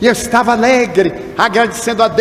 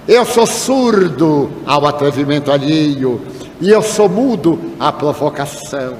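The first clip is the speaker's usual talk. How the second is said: slow, measured, drawn-out pronouncement; solemn declaration; 3 semitones lower than usual. Retold or imitated. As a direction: deliver each clause like a maxim. Responde com máxima solene ao homem. (declaração solene, lenta e pausada)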